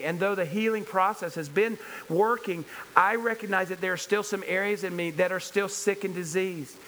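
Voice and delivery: fervent, pressing sermon delivery; impassioned preaching. Real, not acted. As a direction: preach it with personal conviction.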